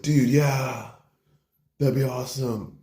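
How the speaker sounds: slightly stretched, enthusiastic bro reply; acted easygoing enthusiasm; eager agreement. Hunting bro agrees to his buddy's plan, eagerly.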